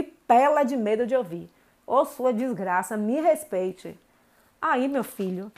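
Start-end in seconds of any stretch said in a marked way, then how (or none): 1.9-4.0 slow, weighted Bahian put-down; slow stern insult. Shown as a demonstration. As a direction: spell out each word like a slow curse. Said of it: "as palavrinhas mágicas". (xingamento lento e pesado)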